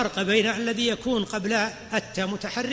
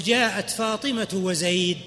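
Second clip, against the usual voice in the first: slow, careful example; slow demonstration; slower than usual. Shown as a demonstration. Teacher slowly shows the phrase to students. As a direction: draw the phrase out for the class. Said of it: "تقول".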